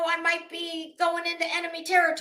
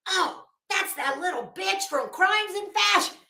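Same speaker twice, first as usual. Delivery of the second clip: higher-pitched mock realization; imagined indignant recognition; 6 semitones higher than usual. Speaker imagines Miss Ann recognizing her, mock indignant recognition. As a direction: act out someone suddenly placing a name.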